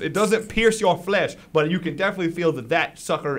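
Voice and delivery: lively blow-by-blow storytelling; game master's action narration. Acted. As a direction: narrate the jab with punch. Game master narrates the spear attack.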